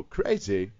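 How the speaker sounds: Walken crazy. Shown as a demonstration. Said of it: "if you put the word crazy, you go".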